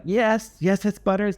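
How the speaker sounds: high-pitched, squirming retold yes; mock-pained confession, pitched well up; reluctant admission. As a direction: own up in a high, helpless voice. Cornered rookie admits secret name.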